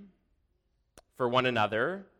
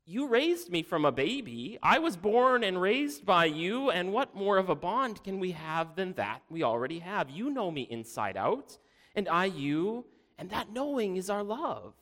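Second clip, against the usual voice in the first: earnest pleading; 7 semitones higher than usual. A narrator's reading. Daughter pleads with demanding father.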